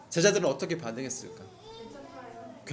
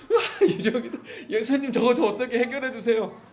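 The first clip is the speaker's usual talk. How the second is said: mock panic; 4 semitones higher than usual. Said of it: "이거 하지 않겠어요".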